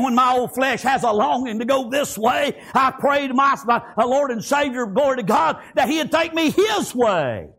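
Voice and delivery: building sermon cadence; fervent preaching. Real, not acted. Preacher telling how he prays over his flesh, building fervour.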